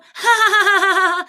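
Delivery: very high, loud fake laugh; mocking cackle. Driver gloating at the woman, mocking cackle. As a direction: cackle triumphantly in staccato bursts.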